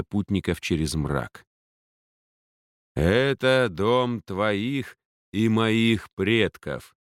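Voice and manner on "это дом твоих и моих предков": solemn voice. Acted. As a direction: announce it with slow solemnity. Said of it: "представил Дарт торжественным голосом".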